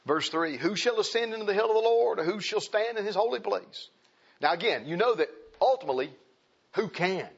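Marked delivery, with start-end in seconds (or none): 0.6-3.9 reading scripture. Real, not acted. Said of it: "Go back to Psalm twenty-four".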